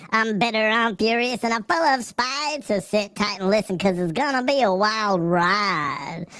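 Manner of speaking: a hammed-up cranky vegetable newscaster; angry turnip voice. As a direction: streamer improvising an angry turnip giving the news. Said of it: "You can't do a turn-up voice?".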